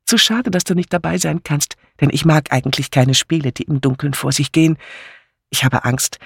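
leicht gespielte, aufgeregt plaudernde Ehefrau; lebhafte Pfarrersfrau. Acted. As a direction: plappere munter auf deinen Mann ein. (munter plaudernd)

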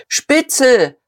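high, loud shriek; shrieked insult. A narrator's reading. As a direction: screech it from behind. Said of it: "kreischte jemand".

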